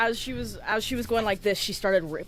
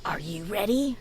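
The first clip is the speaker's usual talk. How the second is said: tossed-back challenge, rising; lightly voiced cheeky echo; mirroring the taunt. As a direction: throw his words back.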